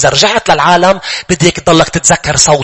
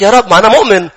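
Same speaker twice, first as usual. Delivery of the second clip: higher and louder desperate cry from hell; 7 semitones higher, 4 dB louder than usual. Acted. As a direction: cry out to the Lord in panic. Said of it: "صار يصرخ".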